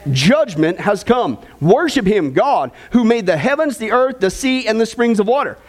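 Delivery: lifted, measured Bible reading to the congregation; scripture reading. Acted. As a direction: read the verses out like a preacher at the pulpit. Reads scripture aloud.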